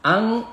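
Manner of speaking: blurred n, drawn out as "ang"; ikhfa nasal. Shown as a demonstration. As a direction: hum the ng in "ang" long. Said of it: "dibaca samar".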